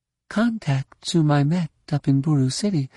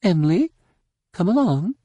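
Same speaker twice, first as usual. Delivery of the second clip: high, mildly irritated summons; imperious, irritated lilt; measure of irritation; 9 semitones higher, faster than usual. A narrator's reading. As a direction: call a servant along with some irritation. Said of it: "Mara overlaid her voice with a measure of irritation".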